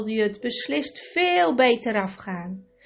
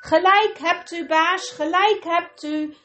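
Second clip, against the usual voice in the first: high, loud eager chorus; chorus calling out; 7 semitones higher, 4 dB louder than usual. A narrator's reading. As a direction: call it out together as one. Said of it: "riepen de anderen in koor". (luid in koor geroepen)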